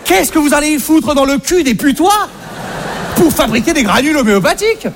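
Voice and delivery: exasperated patient. Retold or imitated. Acted quarrel with homeopath.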